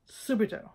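Subito softly stressed on SU; the proper Italian Subito; Subito, SOO-bee-to; correct Italian. Shown as a demonstration. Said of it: "that's the word".

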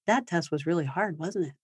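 put-on soft, gentle empathy to a child; empathetic parent. Shown as a demonstration. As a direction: sound sorry for the child's bummer. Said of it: "to be able to, like".

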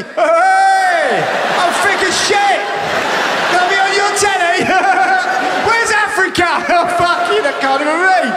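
high, loud, gleeful yelling; hammed-up idiot shouting at the camera; mock thick shouting. Thick people shouting on telly.

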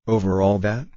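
rising, wondering question; amazed question. A narrator's reading. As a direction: ask it in disbelief. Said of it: "asked the little prince".

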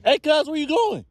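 high, loud call after a dog walking off. Real, not acted. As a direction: call the dog back across the street. Calling after the leaving dog.

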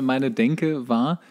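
usual speaking voice

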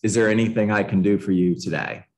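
low-pitched, easy follow-up; pleasantly persistent. Shown as a demonstration. Agent following up with a client as promised, pleasantly persistent. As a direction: check in politely, no pressure. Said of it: "just being pleasantly persistent".

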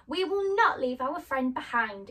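insist, refusing. Acted. Tin Man insists to Scarecrow they keep the lion. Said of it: "insisted the Tin Man".

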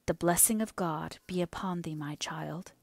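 hushed solemn blessing. Acted. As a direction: bless her like a priest. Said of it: "he said solemnly".

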